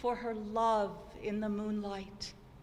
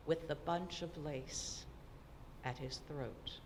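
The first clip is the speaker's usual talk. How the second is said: fading hush; 6 semitones lower, 10 dB quieter than usual. A narrator's reading. His death, recital fades.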